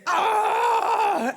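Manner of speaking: long high "ahh" of dismay; drawn-out high cry, imitating onlookers; imitated crowd groan. Father and crowd watching a failed dive, imitated groan. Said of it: "this is loudest from my father".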